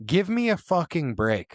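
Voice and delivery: ranting like a fed-up fight promoter; mock Dana White rant. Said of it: "Dana White's quote was".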